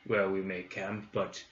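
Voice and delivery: lightly voiced gruff orc. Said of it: "Orc voice".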